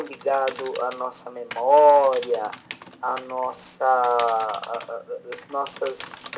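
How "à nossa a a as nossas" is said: faltering voice breaking up mid-phrase; voice cracking. Real, not acted. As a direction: let the voice crack and drop out. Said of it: "minha voz tá falhando".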